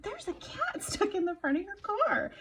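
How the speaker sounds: laughing explanation. Retold or imitated.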